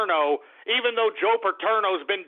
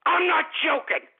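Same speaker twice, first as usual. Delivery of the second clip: firm, higher-pitched insistence; insistent; 4 semitones higher than usual. Real, not acted. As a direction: stress that you mean it. Insists after calling for prosecution.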